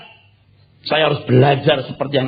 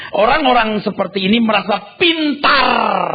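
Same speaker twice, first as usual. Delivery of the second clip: ordinary talk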